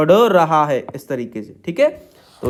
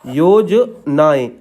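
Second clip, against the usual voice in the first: slow drawn-out word; 2 semitones lower, much slower than usual. Shown as a demonstration. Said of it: "योजनाएं इस तरीके से बना दीजिए".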